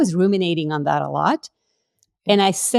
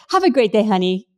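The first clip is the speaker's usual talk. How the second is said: higher, put-on sweet goodbye; mock sweetness; 4 semitones higher, 3 dB louder than usual. Wife seeing off her husband before the driver, put-on sweet. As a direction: switch to a sugary cover-up.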